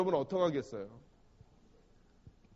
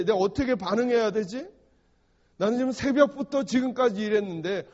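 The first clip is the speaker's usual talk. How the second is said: 억울한 속내; 3 semitones higher, 5 dB louder than usual. Acted. 일꾼의 번민을 연기함.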